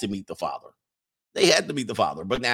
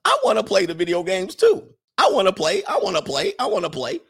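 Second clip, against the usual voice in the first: higher, louder whiny plea that fades; whiny sister; 5 semitones higher, 4 dB louder than usual. Retold or imitated. Sisters begging for the controller, mock whine. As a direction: beg like a kid wanting a turn. Voicing whining stepsisters.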